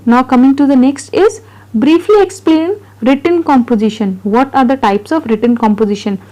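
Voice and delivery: reading notes aloud very slowly, word by word; slow dictation read. Acted. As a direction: spell it out for students to copy. Teacher reads notes aloud slowly. (धीमी गति से notes पढ़ना)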